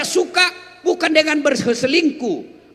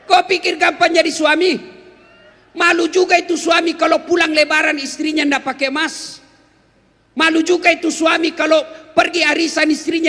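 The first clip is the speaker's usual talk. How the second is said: scolding shout; 2 semitones higher than usual. Acted. Preacher scolding wives.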